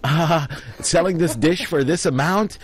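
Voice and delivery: high-pitched mock cover story; imitated flustered excuse. Scammer recruiting a bystander as witness, high imitated excuse.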